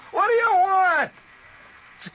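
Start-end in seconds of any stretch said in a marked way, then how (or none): 0.1-1.1 high, loud, slow shout through the house; hollering back from inside. Retold or imitated. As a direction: yell back without going outside. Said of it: "You holler from inside the house".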